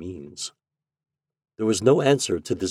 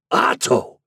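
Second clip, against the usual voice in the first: louder, higher outburst of the name; impassioned, raised exclamation; passionate cry; 4 semitones higher, 5 dB louder than usual. A narrator's reading. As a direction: cry out to your son with passion. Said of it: "cried the other with passion".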